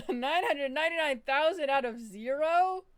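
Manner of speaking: robot host breaking down mid-line; glitching robot. Pretend. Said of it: "you like my voice?".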